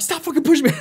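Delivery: high, laughing angry yell; half-laughing mock yell; snapped yell. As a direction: retell yelling at the pusher while cracking up. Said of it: "So then I snapped on him".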